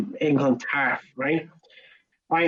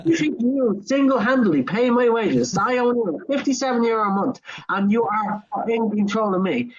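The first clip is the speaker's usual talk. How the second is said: higher-pitched, incredulous retort with laughter creeping in; indignant comeback; 5 semitones higher than usual. Retold or imitated. Worker turning on a customer who claims to pay wages, indignant. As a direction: throw it back at them in mock disbelief.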